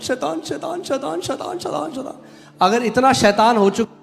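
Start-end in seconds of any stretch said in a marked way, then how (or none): 0.0-2.1 high, soft fretful imitation; hammed-up timid plea, climbing higher; mock helpless whining. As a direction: play a panicky believer bleating to the pastor. Mimics believer complaining to pastor.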